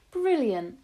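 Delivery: loud delighted cry; cried out. A narrator's reading. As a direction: burst out in delight. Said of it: "my grandmother cried out".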